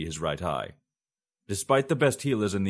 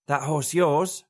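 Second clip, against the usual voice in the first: put-on higher, louder cackling old crone voice; 8 semitones higher, 5 dB louder, slower than usual. A narrator's reading. Crone teasing the fugitives, a high old woman's voice. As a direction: play the amused old witch. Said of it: "the old woman".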